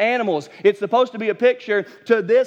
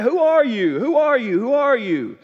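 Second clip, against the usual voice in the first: raised, pressing repeated question; insistent questioning; 6 semitones higher than usual. Retold or imitated. Priests demanding who John is, pressing and raised. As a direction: push the question at him again and again.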